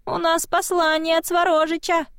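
high little spirit voice; high childlike spirit voice; small child voice. A narrator's reading. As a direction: announce it like a tiny eerie messenger. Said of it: "произнёс голосок".

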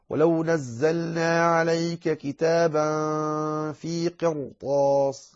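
slow tajweed chant, long vowels; Quranic recitation. Shown as a demonstration. Teacher reciting a verse with heavy ra, slow chant. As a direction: recite slowly with held elongations.

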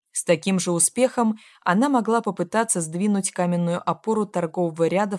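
usual speaking voice

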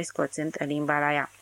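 ordinary delivery, nothing marked

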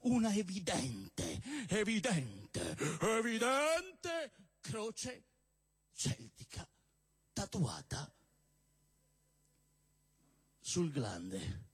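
a stand-up poet reciting with mock gravity; comic poem recitation. Poet reciting a love poem to the crowd, mock solemn. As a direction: declaim the absurd verses like a serious love poem.

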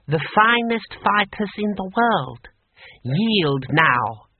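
high, slow, grand boast; pompous official demanding surrender; proud. A narrator's reading. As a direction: proclaim it proudly in a high, measured voice. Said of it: "said Six Beneficent Winds proudly".

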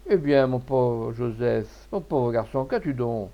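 slow, drawn-out sympathy; pitying, lingering on the opening words; tender concern. Acted. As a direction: gently console a crying lad. Merchant consoles his weeping clerk.

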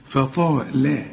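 thin fa, heavy long taa, thin la in فطال; light faa and lam. Shown as a demonstration. Teacher models the rule, light faa and lam in فطال. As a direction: thicken only the taa of فطال. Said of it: "إنما اللام اللي بعدها مرققة".

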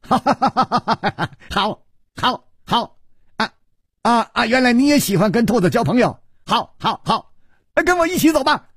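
high giddy laughing voice; laughing madly. Acted. Xue pretending joy to lure Chu, high giddy laughing. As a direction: cackle the words out like a madman. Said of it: "反而大笑".

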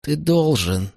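acted urgent hiss, without extra volume; hissed order. A narrator's reading. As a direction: hiss the demand at him. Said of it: "прошипела Помпония".

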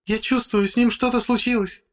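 high woman's voice, a touch of sobbing. A narrator's reading. Wife lamenting her husband as she is led away, tearful high voice. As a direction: lament through tears. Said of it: "рыдает женщина".

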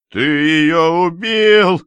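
high, slow, accusing yell; a father blaming his son-in-law, shouting; furious shout. Acted. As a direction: hurl the accusation at him. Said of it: "кричал Веневитинов".

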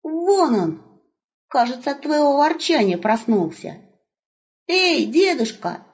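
put-on high, bright calling out to the old man; young wolf hailing grandpa; cheerful young wolf. Voicing young wolf Seryi.

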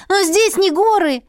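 put-on a scandalised young woman; shocked girl. A narrator's reading. Heroine protests.

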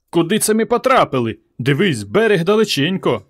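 high-pitched alarmed cry; shouting. A narrator's reading. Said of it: "Петро отпльовувався та кричав".

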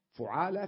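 فعالة said as fuʕala, rounded u after the f; damma on the fa. Shown as a demonstration. Teacher drilling the vowel for students, first syllable fu- clearly. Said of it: "بتثليث الفاء".

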